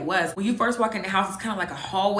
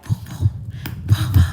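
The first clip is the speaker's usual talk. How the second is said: whispered boom boom getting louder on the second set; heartbeat sound; 3 dB louder than usual. Retold or imitated. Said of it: "My heart was, like, racing".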